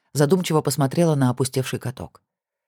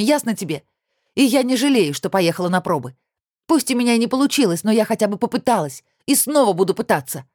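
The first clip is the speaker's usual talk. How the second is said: furious; 7 semitones higher than usual. A narrator's reading. Olya's tearful fight continues.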